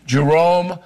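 careful French accent on the name. Shown as a demonstration. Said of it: "I hope I'm getting my French accent".

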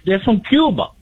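a mild mock Latino neighbor voice; Hispanic accent. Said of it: "do you not have a Mexican?".

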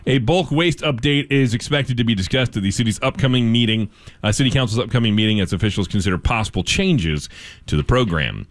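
steady radio news delivery; measured news-anchor reading. Acted. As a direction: read it as a local newscast. Reads local news.

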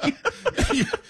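short burst of high laughter; a sudden high laugh. Real, not acted. Laughing at excuse me.

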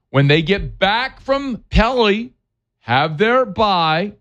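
put-on slow, high French-accented Pelly. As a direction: drawl it out in mock French. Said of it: "you like what I did there".

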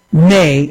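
"may" set apart and leaned on, after a pause; stress on may. Shown as a demonstration. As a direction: hang on the word "may" as a caution. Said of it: "I want to stress the word may".

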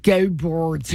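imitated Philly "Go Birds", vowels twisted; Philly accent. Girl in the car cheering for her team, imitated Philly accent. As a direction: mimic a Philly girl's accent. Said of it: "she's like".

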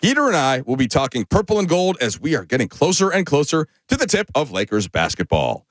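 big hammy radio promo voice; over-the-top promo read. Shown as a demonstration. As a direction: sell it like a booming station liner. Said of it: "Felt over the top".

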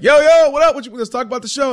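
high-pitched, excited imitation of a caller; Rob G. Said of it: "and he'll be like".

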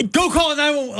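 hurried bystander taking charge; mock panic. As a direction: act out an emergency freak-out. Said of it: "I was much calmer than that".

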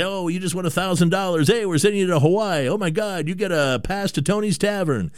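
hammed-up prize announcement; hyped radio DJ. Host imitating radio DJs giving away prizes, excited. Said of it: "the D Js".

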